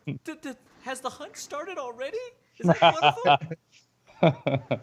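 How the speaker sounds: put-on high, stammering girl; stammering scared girl. Girl fearing the hunt has begun. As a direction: stumble over it in fear.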